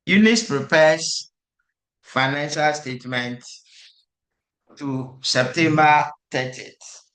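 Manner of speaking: put-on slow, careful reading in a Cambodian accent. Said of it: "let me read with my Cambodian voice".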